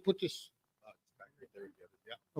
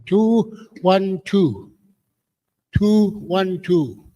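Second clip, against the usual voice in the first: calling out a number; much slower than usual. Real, not acted. Calling ticket numbers at draw.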